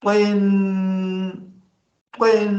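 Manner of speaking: तिन said loud, with a sharp clear त; model pronunciation. Shown as a demonstration. Teacher modelling तिन, loud, so the child copies. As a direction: give तिन a crisp त and a short इ. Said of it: "मेरे इधर चोंटों को देखें".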